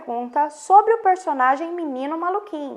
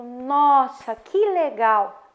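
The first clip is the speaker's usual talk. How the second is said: surprised exclamation; much slower than usual. Shown as a demonstration. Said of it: "uma surpresa, uma admiração".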